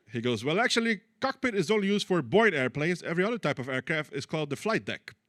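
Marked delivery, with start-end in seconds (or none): 0.4-1.0 higher, louder nitpicking voice; the smug know-it-all setting a comic straight; mock fussy fan, pitched high and loud; pedantic know-it-all. Pedantic Austrian fan correcting. 1.2-5.1 pedantic know-it-all. Retold or imitated. Fan corrects the joke.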